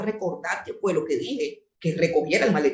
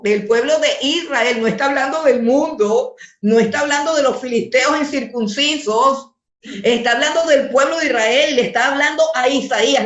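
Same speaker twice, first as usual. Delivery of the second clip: forceful preaching; 4 semitones higher, 3 dB louder than usual. Real, not acted.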